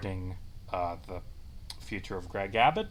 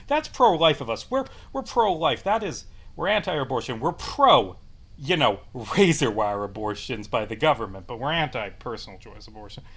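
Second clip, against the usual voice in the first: mocking sarcasm; 4 dB louder than usual. Sarcastic mock of the couple.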